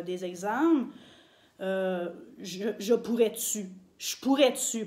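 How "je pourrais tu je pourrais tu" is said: "je pourrais-tu" with the Québec question particle tu. Shown as a demonstration. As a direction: say "je pourrais-tu" the Québécois way, with tu tacked on. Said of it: "on va souvent dire".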